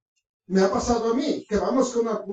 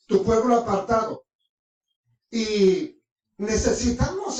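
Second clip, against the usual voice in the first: prayer. Acted. Preacher praying to the Father for his people, measured prayer. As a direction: pray aloud, pausing after each phrase.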